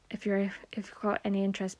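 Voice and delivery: quick whispered aside. Real, not acted. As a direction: drop to a fast whisper.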